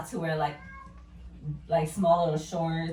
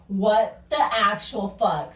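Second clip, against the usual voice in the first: louder, slow, each word spaced in disbelief; slow stunned disbelief; 5 dB louder, much slower than usual. Retold or imitated. Woman soaked in beer by stranger, slow stunned outrage. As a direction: spell out your outrage word by word. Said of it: "And I'm like".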